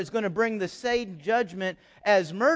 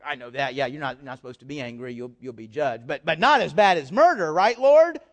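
smug churchgoer; 5 semitones lower, 4 dB louder than usual. Retold or imitated. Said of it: "we'll hear that and go".

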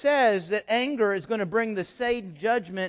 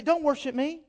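God's command; 9 semitones higher, 6 dB louder than usual. Acted. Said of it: "Imagine God say".

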